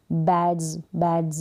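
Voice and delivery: बैड्स ending in a voiced "dz"; buzzed final Z. Shown as a demonstration. Teacher models the Z sound of plural S, buzzed final Z. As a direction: end बैड्स on z, as "badz". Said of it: "ज करके आ रहा है".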